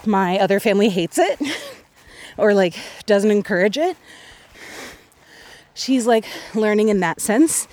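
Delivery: breathless, gasping for air; out of breath. Real, not acted. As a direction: talk while catching your breath. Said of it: "I'm so out of breath".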